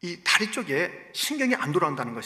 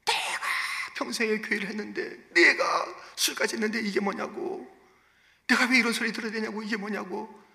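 mock complaining; 5 semitones higher than usual. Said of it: "울고불고 난리 났을까요".

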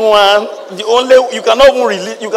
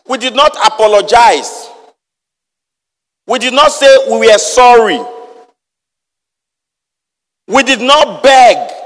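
"not" hammered, louder with each line; stress on not; 4 semitones higher, 4 dB louder than usual. Real, not acted. Preacher driving home that we never begged God, building emphasis.

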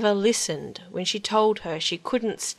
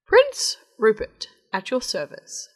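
grand frog voice; 3 semitones higher, 5 dB louder than usual. Acted. Frog introduces himself grandly.

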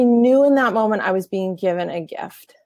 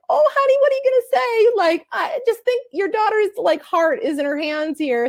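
much higher, fast, fretful mom voice, pitched way up; imitating a worried mom; 11 semitones higher than usual. Mother interrupts her husband, in high worried mock voice. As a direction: play the anxious wife cutting in on dad. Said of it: "we're like".

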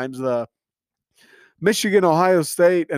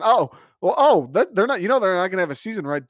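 mocking naysayer; 4 semitones higher, faster than usual. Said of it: "negative Nancy's".

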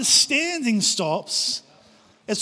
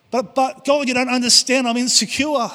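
whiny excuses; 4 semitones higher, 4 dB louder than usual. Retold or imitated. The preacher pleading with God.

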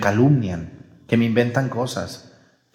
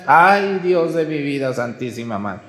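mock dismay. Priest's shocked reaction in story.

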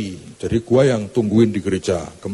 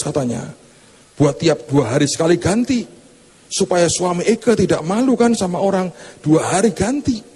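high, showy gossip voice, higher pitch; bragging church lady; 5 semitones higher than usual. Acted. Preacher mimics a lady bragging about Paris in a high showy voice. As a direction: show off the Paris trip like a snob. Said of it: "Yang seorang bilang".

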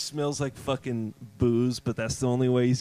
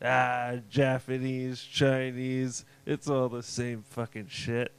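dismissive shrug; 2 semitones lower, 5 dB quieter, slower than usual. Retold or imitated. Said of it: "the Jewish guy's like".

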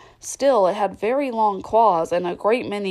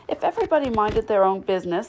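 hoarse growl; faster than usual. Acted. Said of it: "the Duchess said in a hoarse growl".

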